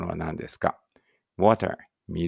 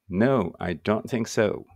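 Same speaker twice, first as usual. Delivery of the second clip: very slow model reading; much slower than usual. Shown as a demonstration. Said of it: "teacher models an English sentence".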